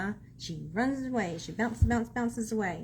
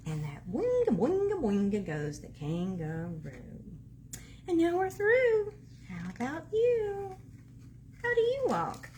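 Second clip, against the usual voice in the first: animated, bouncy picture-book reading; reading to children. A narrator's reading. Reader recaps animal walks for child, lively sing-along reading. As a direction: play up each animal sound for a small child.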